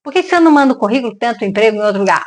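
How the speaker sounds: fast, pushy nudge to send a CV; brisk, urging a friend to quit; quick friendly advice. Retold or imitated. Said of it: "Porque a gente fala".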